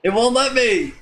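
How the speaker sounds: real frustration at the game; frustrated outburst. Real, not acted. Player complains the game won't let him into the tavern, exasperated.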